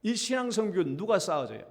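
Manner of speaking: ordinary delivery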